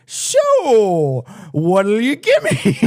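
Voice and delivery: high and slow, fishing for a bribe; lightly voiced greedy president; sly mock president.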